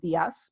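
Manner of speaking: dias said as DIas, flat final as; wrong stress. Shown as a demonstration.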